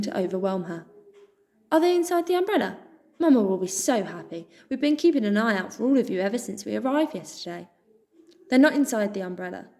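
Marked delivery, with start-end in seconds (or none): 1.7-7.7 high, fast hopeful question; hopeful mouse. Acted. Dot asking Pip about her parents, hopeful. 8.5-9.7 mildly sharp retort, a bit louder; snapping. Acted. Pip snapping at Dot, mildly sharp. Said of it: "Pip snapped".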